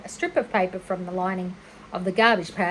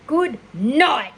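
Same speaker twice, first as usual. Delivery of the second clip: scream; 4 semitones higher, 6 dB louder than usual. Acted. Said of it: "screamed Avery".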